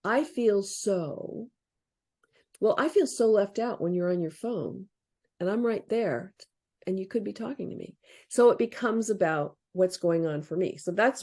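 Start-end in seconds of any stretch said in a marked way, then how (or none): 0.0-8.0 softly voiced. Shown as a demonstration. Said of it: "The reach is".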